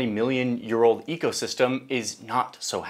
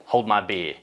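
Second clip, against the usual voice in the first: redone Australian take, "beer" said "bee" with no r; a corrected, slightly broader Australian "Hold my beer"; stronger Australian accent; 4 semitones lower than usual. Retold or imitated. Liam retries his reply in an Australian accent. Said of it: "Oh, excuse me".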